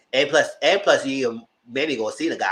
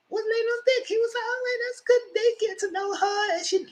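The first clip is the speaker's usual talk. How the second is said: mock smooth talker. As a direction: lay it on thick, mocking. Mocking the guy's smooth talk.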